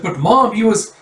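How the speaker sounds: put-on high, loud childish complaint; a boy pleading with his mum; high kid voice objecting; whiny kid protest.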